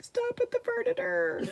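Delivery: mimicking the phone's pronunciation voice; mock robotic voice. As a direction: ham up the reading voice. Mimicking the Google voice.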